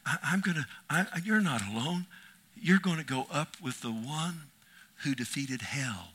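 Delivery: the Lord's promise building to a loud rally; the Lord cheering the nervous pastor on. Retold or imitated. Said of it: "he didn't say that. I just added that".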